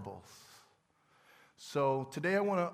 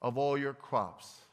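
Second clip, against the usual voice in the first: slow emphasis; slower than usual. Shown as a demonstration. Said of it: "with emphasis".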